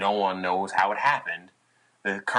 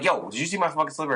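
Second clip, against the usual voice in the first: retold panic; 6 semitones higher, faster than usual. Asking bandmate in panic.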